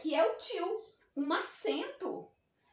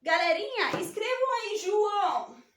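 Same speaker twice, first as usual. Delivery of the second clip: dictating teacher; 4 semitones higher, 5 dB louder than usual. Retold or imitated. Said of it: "Quando a prof fala assim".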